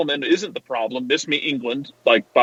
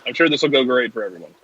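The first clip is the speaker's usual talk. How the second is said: dry, lower-pitched mock assurance; sarcastic; 3 semitones lower than usual. Real, not acted. Podcast host assuring colleagues all will go great, sarcastic. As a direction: praise him while meaning the opposite. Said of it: "Was that sarcasm font".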